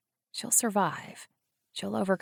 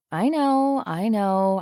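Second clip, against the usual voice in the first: higher, louder quick reassurance; hurried interrupting; 5 semitones higher, 6 dB louder, slower than usual. Acted. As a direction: cut her off before she says it. Cuts off friend's shock.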